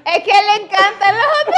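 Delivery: high voice breaking into laughter; laughing defence. Real, not acted. Partner defending his hot dog compliment, laughing. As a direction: squeeze the words out through laughter.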